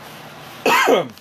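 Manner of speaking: hard cough after choking; coughing fit. Real, not acted.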